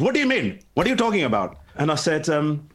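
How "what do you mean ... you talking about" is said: a higher, incredulous mum voice; mock-shocked mother, pitched up. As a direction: mum in disbelief at her son.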